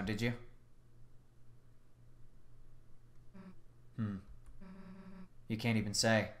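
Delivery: low, soft threatening voice; quiet menace. Acted. Susie confronting the silent witness, quietly menacing.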